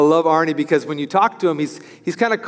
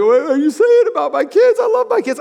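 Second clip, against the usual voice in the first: indignant parent voice, pitched much higher; mock offended parent; 10 semitones higher, 4 dB louder than usual. Preacher mimicking a defensive parent, mock indignant. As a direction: play the defensive parent, hammed up.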